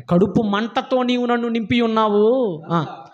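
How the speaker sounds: slow, sinking voice for the prophet's grief; mournful lament. Retold or imitated. Preacher voicing Jeremiah's lonely anguish, slow and mournful. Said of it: "కడుపు తరుక్కుపోతుందటండి ఆయనకి".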